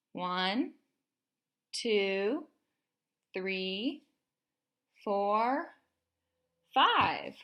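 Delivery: put-on slow counting aloud for a child; teaching a child to count. Shown as a demonstration. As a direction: count slowly with a little one. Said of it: "Can you count with me".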